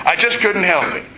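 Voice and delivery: giggling at himself as he admits it; laughing. Real, not acted. Preacher to congregation, recalling the moon landing, laughing.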